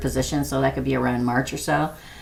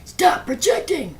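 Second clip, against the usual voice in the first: lightly voiced mock doctor, higher, ending in a whisper; scolding doctor; 5 semitones higher, 7 dB quieter than usual. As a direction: tease the doctor's nagging, half whispered. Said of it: "my doctor's always like".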